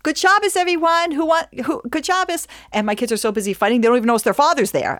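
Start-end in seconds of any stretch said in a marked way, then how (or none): 0.0-2.5 much higher, bright sing-song greeting; cheerful husband. Retold or imitated. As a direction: boom a jolly hello as he walks in. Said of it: "My husband comes home from shul".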